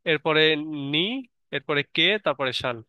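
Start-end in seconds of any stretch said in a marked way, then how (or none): 0.9-1.0 নি sounded out alone; single syllable. Shown as a demonstration. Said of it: "সিলেবলের জ্ঞান থাকলেই". 1.8-2.2 কে sounded out alone; single syllable. Shown as a demonstration. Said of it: "সিলেবলের জ্ঞান থাকলেই". 2.5-2.8 শান sounded out alone; single syllable. Shown as a demonstration. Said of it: "সিলেবলের জ্ঞান থাকলেই".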